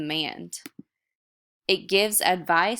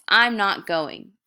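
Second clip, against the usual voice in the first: firm, louder and slow; forceful exclamation; 3 semitones higher, 6 dB louder, slower than usual. Shown as a demonstration. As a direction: say it with force, like refusing. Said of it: "It has force".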